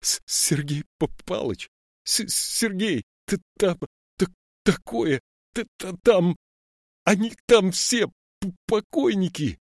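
high, panicked stutter on every first sound; a scared boy who can't get the words out; stammering in fright. A narrator's reading. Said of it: "Заикаясь".

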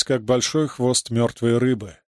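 plain reading voice

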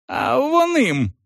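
high, slow pointed yell; drawn-out furious accusation; accusing shout. A narrator's reading. Salon accuses the constable.

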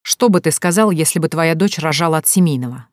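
чётко, по слогам, погромче; чекань каждое слово; отчеканил. A narrator's reading. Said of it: "отчеканил Виктор Семёнович". (отец жёстко чеканит ответ гостю)

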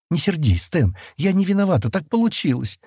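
high, pleading, lightly tearful voice; mildly acted tearful apology; nearly crying. A narrator's reading. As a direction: plead as if close to tears. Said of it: "чуть не плача проговорила Келла".

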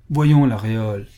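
mild pleading appeal. Acted. Fanny begging Laréole to spy for her, pleading. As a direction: coax him gently. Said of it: "supplia Fanny".

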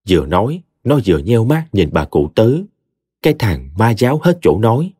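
usual speaking voice

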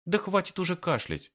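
high mock-scolding call; calls out to him, laughing; laughing shout. A narrator's reading. Woman teases her partner in the bushes, laughing. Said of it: "смеясь, крикнула валерьянка".

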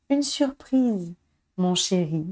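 sourire tendre. A narrator's reading. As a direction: draw out the surprise sweetly with a smile. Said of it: "lui sourit son épouse". (sourire tendre, en étirant les mots)

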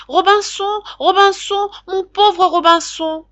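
very high, loud parrot squawks, last call slow; parrot screaming. A narrator's reading. Parrot calling from near the anchor, screeching. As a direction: screech with all its strength. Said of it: "en criant de toutes ses forces".

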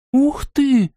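a high, delighted wow; a girl amazed, exclaiming; sudden impressed gasp of a word; excited exclamation. Acted. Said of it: "воскликнула девочка".

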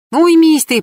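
high, loud sharp yell; a furious high scold. Acted. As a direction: shout him down to stop. Anya scolds Pashka in car.

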